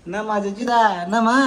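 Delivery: high, soft coaxing call. Real, not acted. Talking to the child just up from sleep, cooing. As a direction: coo gently, pitched well up.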